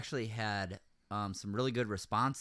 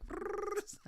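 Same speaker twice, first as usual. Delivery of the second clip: soft trilled toad noise; imitated frog trill; 7 dB quieter than usual. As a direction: imitate a weird little pond-creature trill. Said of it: "it's this weird little".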